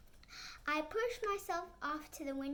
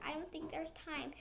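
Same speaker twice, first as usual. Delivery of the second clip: frightened cry; 3 semitones higher than usual. Acted. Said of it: "Frankie cries".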